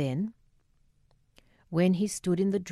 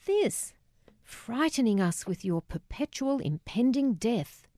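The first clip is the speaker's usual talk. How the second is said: put-on high-pitched, exasperated teenage scorn; mock the parent like a thirteen-year-old; mocking cruelty; 5 semitones higher than usual. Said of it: "mocking cruelty".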